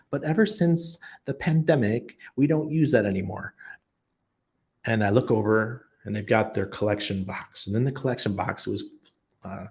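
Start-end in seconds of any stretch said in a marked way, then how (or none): 0.1-3.6 lightly mimicked British lady, higher pitch; British accent. Church lady explaining cash refusal, high mock British accent. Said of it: "British accent".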